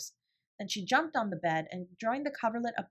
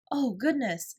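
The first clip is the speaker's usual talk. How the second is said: exclaimed; 5 semitones higher, 5 dB louder, slower than usual. A narrator's reading. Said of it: "exclaimed Ermengarde".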